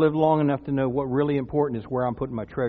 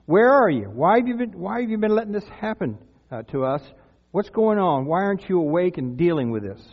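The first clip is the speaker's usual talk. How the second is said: raised, demanding mock plea; crying out to Jesus; 3 semitones higher than usual. Disciples cry out to a sleeping Jesus, insistent questioning. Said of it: "These people are crying out to Jesus".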